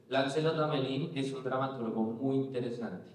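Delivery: put-on Spanish spoken with a French accent; lightly voiced French accent. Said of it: "con acento francés".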